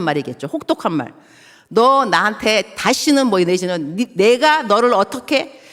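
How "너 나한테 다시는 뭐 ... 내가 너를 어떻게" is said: harsh words. Retold or imitated. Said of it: "막 그 격한".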